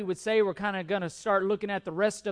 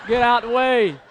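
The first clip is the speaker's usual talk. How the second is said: loud repeat, stress on out; playful crowd-clearing yell; mock shout again; 4 semitones higher, 8 dB louder than usual. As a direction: keep pushing through.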